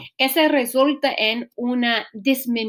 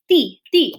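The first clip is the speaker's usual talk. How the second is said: "ti, ti" as two short, louder beats; stressed syllable; 3 semitones higher, 5 dB louder than usual. Shown as a demonstration. Teacher pointing out the penultimate syllable, stressed syllable. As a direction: punch the syllable "ti" twice. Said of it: "la mayor fuerza debe caer en la penúltima".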